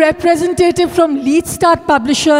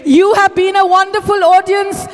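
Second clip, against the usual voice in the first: rousing applause call; 5 semitones higher than usual. Acted. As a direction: lift the room, call out for applause. Emcee rousing the audience to applaud.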